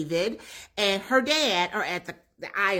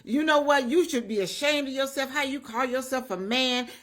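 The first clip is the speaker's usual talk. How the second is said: mock dad tirade, pitched a bit up; retold going off; 4 semitones higher than usual. Angry dad to daughter's man, retold telling-off. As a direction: lightly act out a scolding father. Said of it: "But Daddy is going off".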